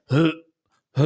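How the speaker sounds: short repeated gagging heaves; imitated dog heaving. Owner hears the dog behind him, imitated heaving. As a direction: mimic a dog starting to retch. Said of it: "And then I hear".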